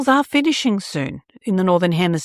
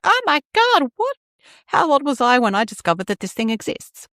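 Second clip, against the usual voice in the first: mock amazement; 5 semitones higher than usual. Mock amazed at big printer.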